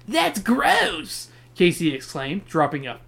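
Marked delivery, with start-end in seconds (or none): 0.1-1.3 put-on girl voice. Casey reacting at dinner table.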